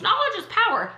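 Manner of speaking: "Knowledge is power." lifted and sing-song, mocking the cliché; air-quote mockery. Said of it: "with their little air quotes".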